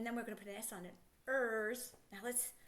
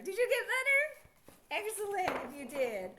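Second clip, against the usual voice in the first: laughing delight; 7 semitones higher, 6 dB louder, slower than usual. Real, not acted. Child answers, teacher delighted.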